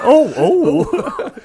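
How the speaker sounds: high, mocking startled oh; recoiling gasp. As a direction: mimic someone recoiling from a spray. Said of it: "It's like".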